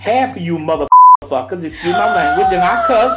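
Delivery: mad. Real, not acted. Fed-up host cursing out his online critics, mad. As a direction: let the anger spill out, apologizing as you go. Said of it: "I'm sorry 'cause I'm mad".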